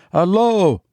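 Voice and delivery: high, nervous greeting; understated nerves; shaking voice. A narrator's reading. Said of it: "he said in a shaking voice".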